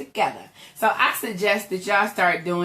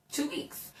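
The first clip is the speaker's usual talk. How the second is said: whispered echo; 5 semitones higher, 14 dB quieter than usual. Real, not acted. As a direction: whisper "Two weeks." in a stunned hush. Echoing the hospital stay length.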